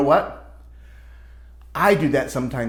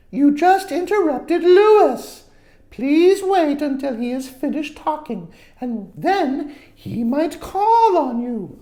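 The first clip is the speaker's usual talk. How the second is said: higher, louder patient teacher voice; firm teacher; 12 semitones higher, 5 dB louder, slower than usual. Acted. Teacher telling Richard to wait his turn, firm. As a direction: correct him firmly but kindly. Teacher scolds interrupting student.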